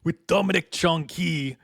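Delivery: lightly hammed-up stage reading, laughing through it; dramatic actor voice cracking into a laugh; thespian voice. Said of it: "my thespian voice".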